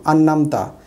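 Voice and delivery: "अनअमत" without the ayn; smooth double n in "अनअमत"; common mistake. Shown as a demonstration. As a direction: say "अनअमत" as "annamta". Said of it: "आइन नहीं पढ़ते".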